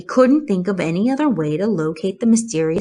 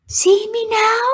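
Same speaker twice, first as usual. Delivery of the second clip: high, gentle spider voice; kindly spider. Acted. Charlotte waving at Wilbur, gentle question. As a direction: ask with a friendly wave.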